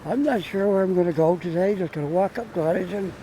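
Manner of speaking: muffled by a face mask; speaking through a mask. Real, not acted. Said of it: "talking through my mask 'cause it kinda muffles my voice".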